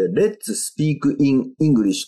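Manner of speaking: "Let's Speak in English" word by word, as "rettsu supiiku in ingurisshu"; Japanese-syllable "Let's Speak in English", no linking; unlinked katakana reading. Shown as a demonstration. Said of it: "ただこれを日本語リッシュですと".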